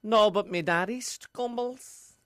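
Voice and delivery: lightly voiced Dublin girl accent; a bad Dublin accent, playing a contestant. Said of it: "Very bad Dublin accent".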